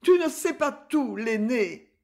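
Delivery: high anguished moan on tu. Acted. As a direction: groan it out, pitch leaping up. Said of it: "gémit Mion".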